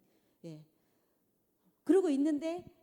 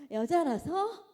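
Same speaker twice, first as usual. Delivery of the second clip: mocking refrain; 6 semitones higher, 6 dB louder, much slower than usual. Real, not acted. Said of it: "mocking repetition, louder and higher".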